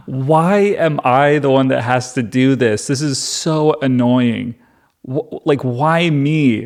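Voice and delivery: put-upon, self-pitying griping; a touch of comic exasperation, dragging the annoyance; mild mock complaining. Moses asks why he was chosen, mildly whining. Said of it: "he already was complaining about this".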